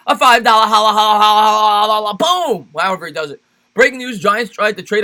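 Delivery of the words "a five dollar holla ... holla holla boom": loud hype chant, holla holla holla, ending on a high boom; mock hype-man chant, shouted; imitating Bad Dog's holla. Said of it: "I can't do that like Bad Dog".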